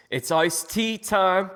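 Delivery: high, slow sung-out announcer call; singsong announcement. Pretend. Host announcing drinks to the co-hosts, high and sung out. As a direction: drawl it out like a game show host. Announcing iced tea time.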